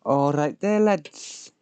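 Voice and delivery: hammed-up northern greeting. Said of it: "I don't know what accent he's supposed to be".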